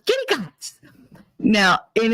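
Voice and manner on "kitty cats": put-on high, little-girl "Kitty cats" with cats said like "cahts"; child's mispronunciation. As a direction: say "Kitty cats" as a high-voiced kid, cats as "gots". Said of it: "She can't pronounce it".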